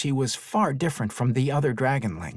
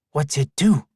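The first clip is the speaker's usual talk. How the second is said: curious; 3 semitones higher, 5 dB louder than usual. Acted. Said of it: "in a curious voice".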